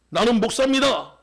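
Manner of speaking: loud blurted answer. Acted. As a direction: blurt it out loudly before you can think. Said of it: "자기도 모르게 큰 소리로 얘기했습니다".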